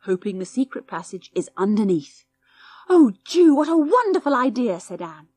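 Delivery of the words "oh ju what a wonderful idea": high, bright burst of delight; a girl thrilled by a brilliant idea; delighted cry. A narrator's reading.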